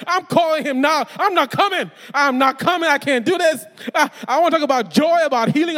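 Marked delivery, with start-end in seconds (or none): 0.1-3.6 louder, higher panicked protest; mock panic, loud and high; panicked outburst. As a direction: blurt it out like you're backing out. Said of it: "I'm like".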